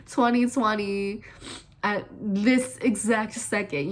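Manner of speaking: slow, laughing mock precision. Real, not acted. Teasing Virgo planners, laughing. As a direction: drag it out through giggles.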